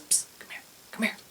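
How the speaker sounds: hushed, beckoning stage whisper; secretive whisper. Retold or imitated. Aide sneaks fans into the panel, secretive whisper.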